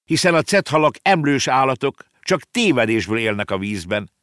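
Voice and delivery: put-on high, loud girl's outburst that eases; exclaiming. Girl correcting the boy about whales, exclaiming. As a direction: set him straight, high and emphatic. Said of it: "kiáltott fel a kislány".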